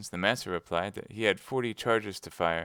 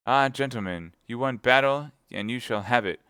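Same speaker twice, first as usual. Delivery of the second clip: Athos calls out higher and louder; defiant challenge; 4 semitones higher, 6 dB louder than usual. Acted. Athos dares the Englishmen through the cellar door, loud and defiant. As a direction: dare them to fight.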